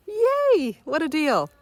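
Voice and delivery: high, loud bargain-hunter's cheer; gleeful, high-pitched yay; delighted cheer. Retold or imitated. Cheering the cheap bus fare.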